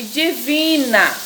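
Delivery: "divina" slowly, with "vi" drawn out; stress on VI. Shown as a demonstration. Teacher giving pupils an example, long stressed "vi" in "divina". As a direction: lengthen the "vi" in "divina". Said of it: "tem a sílaba mais forte".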